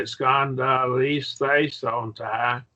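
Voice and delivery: "Scandalise, they, son, ta" slow and measured, each part separate; slow sounding-out. Shown as a demonstration. Teacher modelling the Greek word for a student, slow and deliberate. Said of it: "just what you do is you say".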